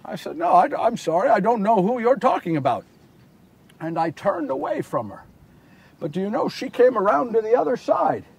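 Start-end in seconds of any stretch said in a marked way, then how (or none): 0.4-2.8 polite, mild brush-off; apologetic denial. Acted. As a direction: deny it as if excusing yourself. First, apologetic denial to the woman.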